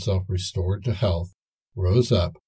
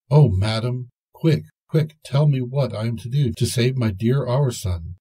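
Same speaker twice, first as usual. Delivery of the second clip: breathless, higher, rushing plea; urgent pleading; 3 semitones higher, 3 dB louder than usual. Acted. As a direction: beg the fairy to hurry. Violet pleads urgently with fairy.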